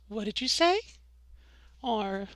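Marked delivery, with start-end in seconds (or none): 0.1-0.8 "say" swept upward as a light question; rising question. Shown as a demonstration. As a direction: lift the end of "say" into a question. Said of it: "when I answered a question like".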